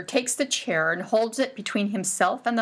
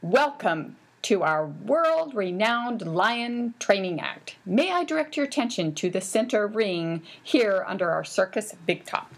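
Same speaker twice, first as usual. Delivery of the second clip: ringmaster. Acted. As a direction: announce it grandly to the big top. Announcer introducing the circus act.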